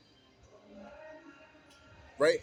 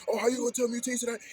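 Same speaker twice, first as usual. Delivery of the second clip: higher, louder incredulous mock voice; mock indignant roommate; 8 semitones higher, 4 dB louder, faster than usual. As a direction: scoff it like the offended roommate.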